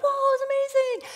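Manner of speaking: high, loud amazed whoop; excited cheer. Retold or imitated. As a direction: shout in delighted amazement. Family cheering the roll.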